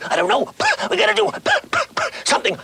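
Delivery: very high talking car, words between sputters; Speed Buggy. Retold or imitated. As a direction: splutter out each phrase like a coughing engine. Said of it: "He'd go".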